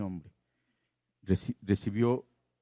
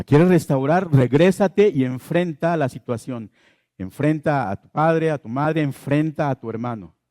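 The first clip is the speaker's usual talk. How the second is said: louder, urgent preaching push; forceful exhortation; 3 semitones higher, 6 dB louder than usual. Real, not acted. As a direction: drive it home to the congregation. Exhorting the congregation to confront. (exhortación enérgica y fuerte)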